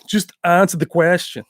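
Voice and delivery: put-on lighter echo of the accented line; echoing Van Damme. Repeating Van Damme's line to chat, lightly accented. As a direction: toss off the quote again. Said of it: "repeats the quote".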